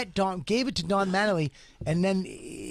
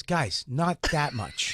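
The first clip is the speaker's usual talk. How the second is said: slow pleading; 3 semitones lower, much slower than usual. Retold or imitated. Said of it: "they went like this".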